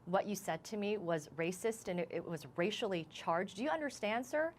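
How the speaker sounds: firm confronting question; stern retold question. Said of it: "I said to him in a really stern voice".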